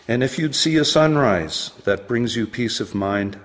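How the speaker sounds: measured poetry reading, pausing between phrases; poem recitation. Acted. Poet reading advice to his ten-year-old self, poem recitation. Reads own poem aloud.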